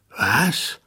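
loud, furious demand; angry. Acted. King angrily turns on the dwarf over the noise. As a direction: turn on him in anger. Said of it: "wandte sich wütend gegen den Zwerg".

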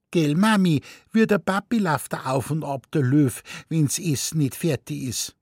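put-on high, quick child's chatter; cheeky little boy. A narrator's reading. Little boy telling mummy about the pacing lion, high and eager. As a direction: blurt it out like a small boy.

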